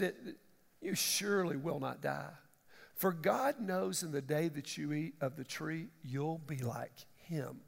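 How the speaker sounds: low, slow, hissing tempter; sly devil voice. Acted. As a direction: whisper it like the serpent.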